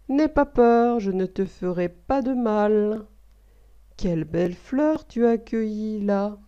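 un loup qui se fait gentil, à peine joué; voix de loup aimable, légèrement esquissée. Acted. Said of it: "d'un ton aimable". (le loup salue le Petit Chaperon rouge, d'un ton aimable léger)

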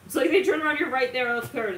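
high, loud and fast, caught off guard; startled gasp. Acted. Someone caught mid-incantation, startled gasp. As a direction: gasp as they spin round.

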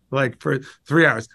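normal talking voice

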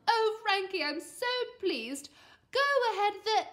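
high, loud, gushing relief; thrilled, stretched praise; delighted mum. A narrator's reading. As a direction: gush with pleasure at your child. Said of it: "exclaimed Mum".

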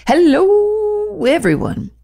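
high, long-stretched hello; exuberant greeting. Acted. Reading out a listener's letter, exuberant greeting. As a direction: open big like a show host.

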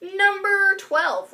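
stretched out slowly; slow drawn out. Shown as a demonstration. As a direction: draw the words out slowly. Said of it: "right? Twelve?".

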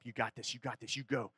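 quietly psyching himself up; self pep talk. Retold or imitated. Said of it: "I'm trying to pump myself up".

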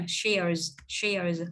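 "shares" with a curled R into voiced Z; final Z sound. Shown as a demonstration. Teacher modelling the plural for learners, "shares" ending in Z. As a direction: end each "shares" on a buzzing Z. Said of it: "các bạn sẽ đọc là âm Z nè".

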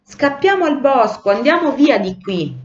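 high, urgent panicky call; frightened cries. A narrator's reading. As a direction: cry out to escape. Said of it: "tremavano di paura e gridavano". (grido impaurito, acuto e concitato)

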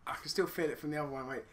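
fast unvoiced whisper. Real, not acted. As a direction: whisper it quickly. Whispered aside.

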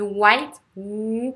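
"white" from a rounded oo; lips-forward W. Shown as a demonstration. Teacher showing the W, "white" opening out of "ou". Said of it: "la bouche en avant".

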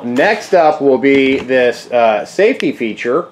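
slow, dry sarcastic drawl. Real, not acted. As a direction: lean on it like it's a joke. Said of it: "I'm being sarcastic".

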